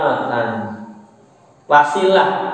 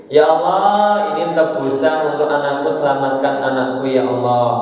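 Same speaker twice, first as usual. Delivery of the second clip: lightly acted supplication; retold prayer. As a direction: recite a father's plea to God, falling away at the end. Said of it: "langsung berdoa".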